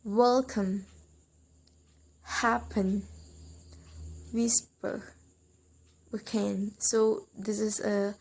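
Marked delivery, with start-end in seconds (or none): 0.0-6.7 "welcome, happen, whisper, weekend", each stressed on the first syllable; weight on "wel-", "hap-", "whis-" and "week-". Shown as a demonstration. Teacher lists exceptions, stressing the first syllable of "welcome, happen, whisper, weekend". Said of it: "the exceptions, uh, like in the word".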